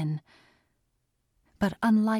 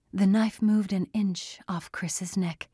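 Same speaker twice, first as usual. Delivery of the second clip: usual speaking voice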